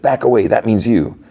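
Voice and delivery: high-pitched retold order; mock warning. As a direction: imitate an agent warning someone off. Armed agent orders man back.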